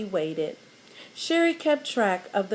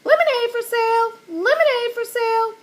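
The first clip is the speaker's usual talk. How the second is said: high, fast squawking parrot voice; 12 semitones higher, 4 dB louder than usual. A narrator's reading. Parrot Petey squawking to passersby, high and shrill. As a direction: squawk it out like a parrot hawking lemonade. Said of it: "squawked again".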